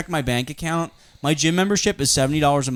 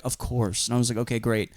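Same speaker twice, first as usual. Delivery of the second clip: quiet resignation; 3 semitones lower, 6 dB quieter than usual. Retold or imitated. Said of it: "she was like".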